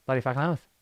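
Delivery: offhand Aussie cursing, rising at the end; put-on Australian swearing; Australian accent. Shown as a demonstration. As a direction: curse casually like an Australian. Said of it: "when Australians curse".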